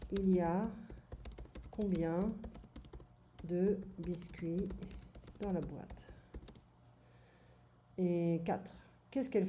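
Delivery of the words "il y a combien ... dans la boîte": slow, with pauses between each chunk; teacher rephrasing the question slowly for a student. Shown as a demonstration. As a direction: break the question into slow pieces, one at a time. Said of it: "je voudrais poser la question différemment".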